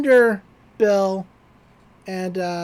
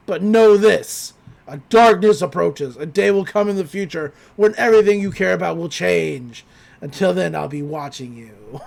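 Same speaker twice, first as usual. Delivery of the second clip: ominous villain voice; 3 semitones lower, 3 dB louder than usual. Retold or imitated. Bill's ominous warning retold.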